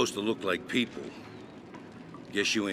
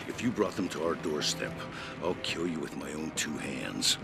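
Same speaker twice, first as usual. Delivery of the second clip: grim warning; 5 semitones lower than usual. Acted. Warning strangers not to bring Skynet, low menace. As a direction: sink lower into a plain threat.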